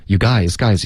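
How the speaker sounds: "guys" weighted above "You"; stress on GUYS. Shown as a demonstration. Teacher explains stress, emphatic "guys". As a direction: hit "guys" as a stressed word. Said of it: "guys也是重音".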